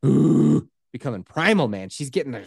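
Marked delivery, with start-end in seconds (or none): 0.1-0.7 imitated low "ooh" moan, pushed out loud; low labor moan. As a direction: mimic a labouring groan. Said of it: "she's, like, doing the low".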